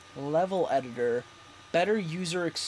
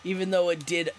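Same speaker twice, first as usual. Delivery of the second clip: a hint of surfer dude; laid-back surfer lilt, only slight. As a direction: lightly slip into surfer-dude voice. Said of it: "my voice changed to Surfer Dude".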